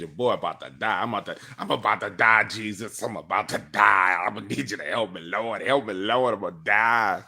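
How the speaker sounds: building hammed-up wail; panicked pleading. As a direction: beg for help as if about to die. Retold terror, begging the Lord.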